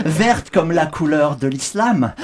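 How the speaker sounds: mock alarmist. Parody of alarmist rant.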